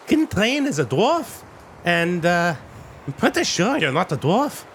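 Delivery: high dwarf woman, suspicious. Acted. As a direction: pitch up as the wary dwarf. GM voices the dwarf.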